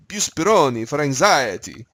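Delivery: mock Italian accent, slow and sing-song; playful hammed-up Italian accent. Shown as a demonstration. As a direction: try a bad Italian accent on it. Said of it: "works a little better if you do it in an Italian accent".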